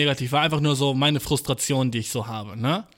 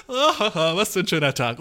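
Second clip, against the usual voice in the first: mock cheerful; slower than usual. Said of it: "manche Leute gehen ... und sind so".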